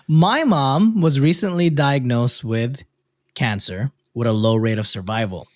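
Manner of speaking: measured read-aloud with lifted phrase starts; reading a post aloud. A narrator's reading. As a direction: read out the letter clearly, pausing between phrases. Reads a listener's post aloud.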